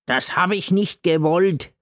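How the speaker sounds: put-on high, odd drunken slur; slurred apology. A narrator's reading. God slurs an apology to Gailana.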